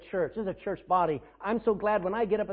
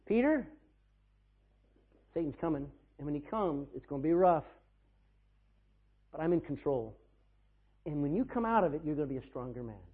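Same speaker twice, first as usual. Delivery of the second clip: tender paraphrase; 5 semitones lower than usual. Retold or imitated. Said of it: "what is Jesus saying to Peter".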